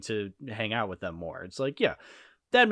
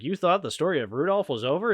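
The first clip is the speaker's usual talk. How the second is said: cheesy narrator voice; 6 semitones higher than usual. Retold or imitated. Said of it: "bad narrator".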